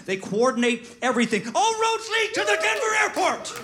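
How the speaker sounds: rising, frantic conspiracy rant; paranoid late night rant. Retold or imitated. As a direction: spiral into frenzied paranoia. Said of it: "just some guy ran".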